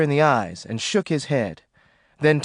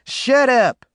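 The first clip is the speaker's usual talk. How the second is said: loud sharp command, higher; order; 8 semitones higher, 5 dB louder than usual. Acted. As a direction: shut her up hard. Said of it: "John ordered".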